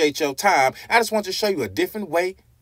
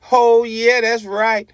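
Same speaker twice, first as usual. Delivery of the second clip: excited; 6 semitones higher, 5 dB louder, slower than usual. Real, not acted. Answers own question with emphasis.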